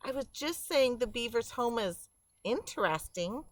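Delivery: backing down, small voice; shrinking back. Acted. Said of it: "Thistle shrank down".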